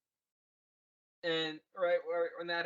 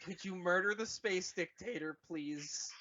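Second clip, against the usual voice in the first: loud, higher cheer; mock proud parents; 3 semitones higher, 3 dB louder, slower than usual. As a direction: gush like doting parents. Parents praise Kylo.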